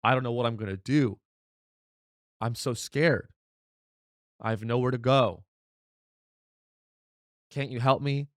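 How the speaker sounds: lightly hammed-up frightened pleading; a hint of a sobbing evacuee; mock scared fire victim. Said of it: "People are like".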